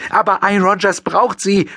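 high, desperate pleading; high tearful young woman begging. A narrator's reading. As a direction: beg them in tears. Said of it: "mit flehender Stimme".

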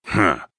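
short acted snort; dismissive huff; derisive snort. A narrator's reading. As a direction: snort it out through the nose. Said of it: "Horn snorted".

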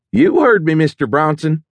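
high, taunting menace; menacing passenger. A narrator's reading. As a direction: sneer it at the pilot. Hijacker threatens pilot mid-flight.

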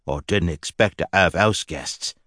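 dry, slow retort; deadpan jab back; satiric. Acted. Grundy answering Lady Tabor, dry satiric. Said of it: "was his satiric reply".

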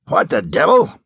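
startled gasping question; a sharp breath of shock; a hint of a gasp in the voice. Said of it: "Sparks gasped".

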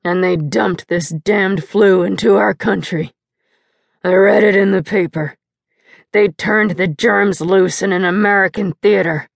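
a hint of a slurred, bitter drunk father. Drunk father ranting at his wife in the kitchen, lightly slurred. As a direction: let the drink slur the rant.

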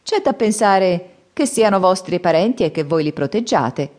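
teasing retort. Acted. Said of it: "ribatté Scimmiotto sorridendo".

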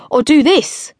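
put-on high, loud kid's call. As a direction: call it out like a cocky boy. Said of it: "called out the first boy".

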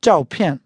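"Zhao pian", each syllable falling; both falling tone. Shown as a demonstration. Teacher repeats the tones, "Zhao pian" with both syllables falling. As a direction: say "Zhao pian" as two Mandarin fourth tones. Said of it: "both falling tone".

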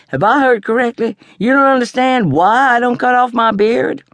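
high, affronted demand; Papa Daddy demanding an explanation from his granddaughter; offended grandfather. A narrator's reading. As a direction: bristle with wounded pride.

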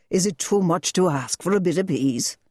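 a hint of a tired father; weary rebuke. A narrator's reading. Father rebukes his daughter, lightly weary. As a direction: ask for peace, worn out.

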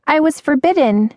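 put-on high, anxious girl's voice; high-pitched worried admission; fearful. A narrator's reading. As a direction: confess it timidly, pitched high. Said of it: "her eyes widening with fear".

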